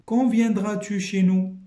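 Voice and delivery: reading example. Shown as a demonstration. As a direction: read the example question out slowly. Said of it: "teacher reads example question". (question lue plus fort et lentement)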